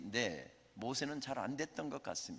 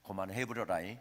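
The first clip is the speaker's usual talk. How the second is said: Jeolla dialect; 5 semitones lower than usual. Acted. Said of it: "하나님께서 전라도 말로 이렇게 응답하셨답니다".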